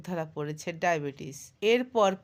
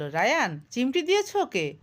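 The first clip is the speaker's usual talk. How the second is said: put-on louder, higher shout at the boy; angry mother shouting; 5 semitones higher, 5 dB louder than usual. A narrator's reading. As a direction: yell the accusation at her son. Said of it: "চেঁচিয়ে বলল".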